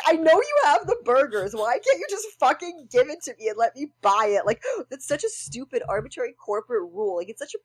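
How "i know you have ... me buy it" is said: high, exasperated rant at the counter; mock frustrated customer. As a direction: complain like a fed-up customer, pitched up. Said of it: "And it's like".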